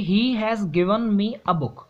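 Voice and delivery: reading the sentence very slowly, word by word; slow classroom dictation of an example sentence. Shown as a demonstration. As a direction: dictate it so students can write along.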